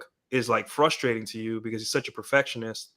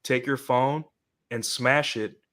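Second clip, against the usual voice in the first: put-on Indian accent. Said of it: "in his Indian voice".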